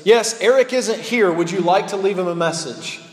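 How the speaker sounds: lightly voiced helpful phone assistant. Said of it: "his assistant picks up the phone".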